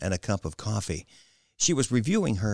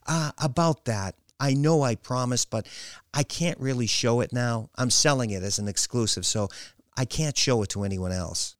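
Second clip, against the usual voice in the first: lightly voiced, higher, halting daughter; hesitant daughter; 5 semitones higher than usual. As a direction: back out of a promise awkwardly.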